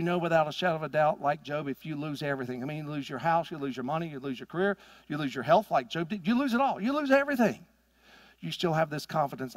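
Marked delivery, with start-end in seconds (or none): 6.3-7.6 rising climax. Real, not acted. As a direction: pitch jumps high after the list. Climax of a list of losses.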